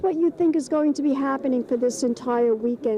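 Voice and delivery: breathy gushing showbiz host; gushing red carpet chatter. Acted. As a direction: gush over the guest like a glam host. Hosts red carpet show in character.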